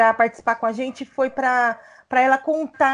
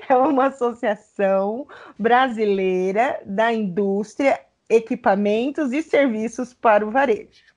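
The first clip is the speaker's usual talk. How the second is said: over enunciating. Shown as a demonstration. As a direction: spell it out deliberately. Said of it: "Peraí que eu vou falar devagar".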